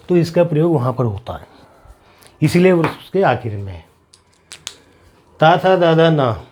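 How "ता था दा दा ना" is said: ता, था, दा, ना said slowly with the tongue on the teeth; syllable drill of ता, था, दा, ना for learners; dental consonants drill. Shown as a demonstration. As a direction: sound out ता, था, दा, ना one by one. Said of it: "अलग स्थान से उच्चारण होता है".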